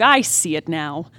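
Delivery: ordinary talk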